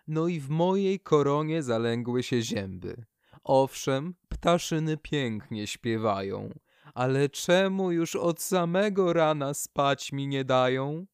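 fed up with the noisy birds; grumbling birch. Acted. The birch grumbles to the poplar about finches that wake her early.

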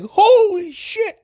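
high squealing laughing "holy shit" at the top of the voice; stretched-out, laugh-choked exclamation; imitating friend's reaction. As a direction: mimic a friend's shocked, laughing yelp. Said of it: "if you know Marshall, then you'll know his".

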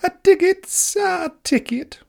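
fussy meter maid reciting a rule; prissy rule reading. Acted. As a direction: read the rule like a proud stickler. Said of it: "twerked Mildred".

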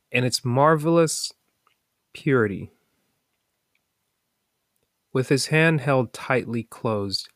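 measured storytelling with lifted phrase openings; story narration. A narrator's reading. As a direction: read it out as a parable, pausing between phrases. Reads a parable aloud.

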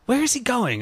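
mock puzzled question. Host retelling her reaction to friend signing off, mock puzzled question. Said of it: "she's like".

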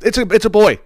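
high, loud announcing cheer; mock reveal. Host announcing the baby is a boy, mock cheer.

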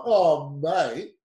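drawn-out mock whinge to the ref; lightly put-on protest, words stretched; mock complaining. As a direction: imitate a player griping at the referee. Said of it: "starts complaining to the ref".

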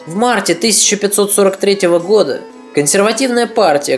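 plain reading voice

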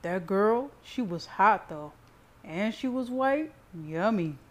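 lightly teasing brother, punching words. A narrator's reading. Brother goads Cyrus about the girl, lightly teasing. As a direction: tease him with rising, leering phrase ends. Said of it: "Nathan teased".

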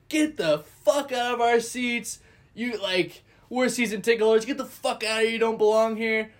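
imitating hostile fans shouting at us; angry fans yelling. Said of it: "very intense in their face".

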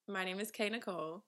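"K" set out clearly before "Nicole"; stress on K. Shown as a demonstration. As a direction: lean on the "K" in "K Nicole". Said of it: "Emphasis on the K".

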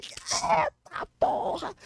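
very high, drawn-out Eita of disbelief; amazed exclamation. Retold or imitated. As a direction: stretch it out in stunned joy. Got her number. (espanto eufórico, bem agudo e arrastado)

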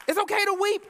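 escalating preacher's cry. Shown as a demonstration. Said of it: "let's start telling our young sons".

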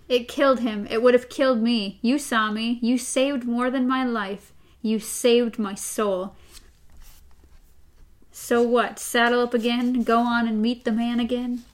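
reading the novel's dialogue aloud to co-host; steady read-aloud of a tense talk; story reading. A narrator's reading. Host reads Roland and Eddie's exchange, story reading.

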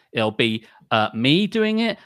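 normal talking voice

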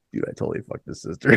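fast whispered confession; sheepish whisper. Retold or imitated. Drummer quietly admitting to the singer, fast whisper. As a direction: whisper the admission, quick and guilty. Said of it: "He's like".

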